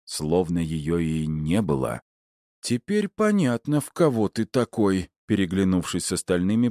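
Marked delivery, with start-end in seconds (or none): 2.6-5.1 muttered. A narrator's reading. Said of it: "пробормотала Мэг".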